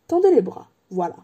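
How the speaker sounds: lightly voiced, wistful old wandmaker; a hint of an old craftsman remembering. Ollivander remembers Harry's mother, lightly voiced old man.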